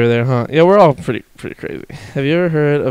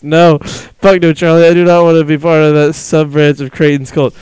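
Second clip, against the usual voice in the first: ordinary delivery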